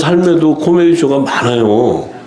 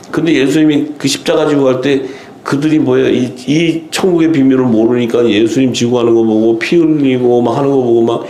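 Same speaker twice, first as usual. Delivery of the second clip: usual speaking voice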